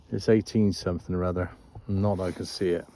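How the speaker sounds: talking around a vape; words round a vape puff; vape in mouth. Real, not acted. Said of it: "Excuse the vape".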